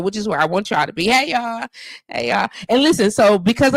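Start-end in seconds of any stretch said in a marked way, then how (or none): 1.1-1.7 higher, lifted greeting to viewers. Real, not acted. Greeting viewers twice differently. 2.1-2.5 low rising greeting. Real, not acted. Greeting viewers twice differently.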